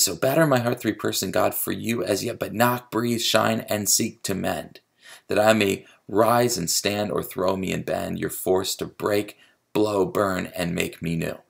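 verse read in a level beat, each single word like "knock, breathe, shine" stressed; abrupt metrical reading. Shown as a demonstration. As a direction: recite to show the jerky meter. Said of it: "you hear that abruptness".

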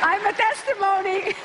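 a jokey threat to the audience about her age; playful mock warning. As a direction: wag a finger at the crowd in jest. Joking aside to audience.

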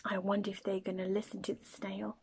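quick whispered wondering; hushed whisper. Acted. Storyteller wondering aloud to children, fast whisper. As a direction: whisper it like a secret.

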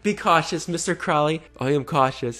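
high, mocking sing-song read. Vlogger mocking the predator's caution, high sing-song voice.

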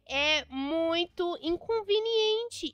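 very slow, word-by-word spelled out; slow dictation. Real, not acted. Girl dictates her chat reply to the pushy guy, very slowly. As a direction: drag each syllable as you type it.

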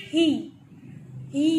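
ही, ही with the E held long; long vowel. Shown as a demonstration. Teacher reading the first picture word, long E in ही. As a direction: lengthen the ई in each ही. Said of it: "लंबा पढ़ रहे हैं".

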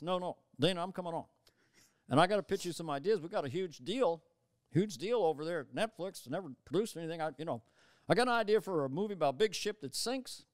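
Obama pitching a movie to Dana; mild Obama impression; Obama pitching ideas. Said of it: "I had Obama come on and goes".

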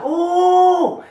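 high, loud startled "Oh!" from mom; mom's gasp. Retold or imitated. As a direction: mom yelping in shock. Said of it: "My mom's like".

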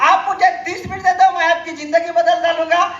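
mock the line while cracking up; laughing mimicry. Retelling the recruiter's line to the audience, laughing. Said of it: "काय म्हणत होतो?".

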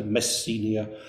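Messenia with a long "see" in the middle; English pronunciation. Shown as a demonstration. Lecturer showing the audience a variant, English pronunciation. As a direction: say Messenia as "mess-SEE-nia". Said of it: "My pronunciation will vary".

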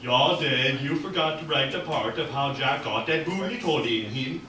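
lightly voiced chilling Swede; mournful villain with a Swedish accent. Tall pale man addressing the writer, Swedish accent. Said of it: "Swedish accently".

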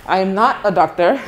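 amused, laughing denial. Real, not acted. Mistaken for a surgeon, she laughs while denying it. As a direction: laugh as you correct them.

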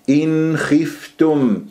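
slow recited إن خفتم with distinct ن; clear nun. Shown as a demonstration. Teacher models izhar, slow clear إن خفتم. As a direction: sound the n of إن cleanly before خ. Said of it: "لازم تظهر عندي النون".

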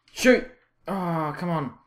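sudden high, loud yell at the players; one explosive burst; urgent shout. Real, not acted. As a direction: yell it as the chance opens. Calling out at the game.

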